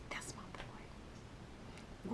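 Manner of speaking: whispered, slow mock pride; soft slow whispered praise; proud whisper. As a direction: breathe it out like a fooled proud mom. Proud mom, fooled.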